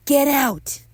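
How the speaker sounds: high, loud order to leave; shouted, high-pitched command; angry yell. Acted. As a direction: yell it at an intruder. Ordering an intruder out.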